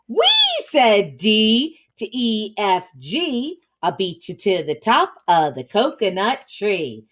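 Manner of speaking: slow, rhythmic picture-book reading; read-aloud to children. A narrator's reading. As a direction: read it like a chant to young children.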